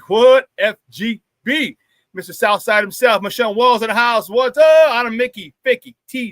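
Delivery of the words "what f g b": chanted call with a loud what; call and response. Real, not acted. Host chanting the show slogan to the chat, call and response. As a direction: hype the crowd with a chant.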